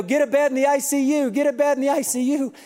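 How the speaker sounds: mock urgent staff call; urgent order. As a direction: relay the doctors' urgent order. Doctors urgently calling orders.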